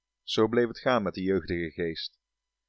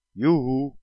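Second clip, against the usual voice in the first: high, louder yoo-hoo across the water; a teasing call across the water; 5 semitones higher, 4 dB louder than usual. Acted. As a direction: call sweetly from the far bank. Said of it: "riep het".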